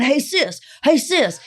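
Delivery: high, loud falling calls; imitated calling out. Re-enacting the man who was limping after her, imitated high calling.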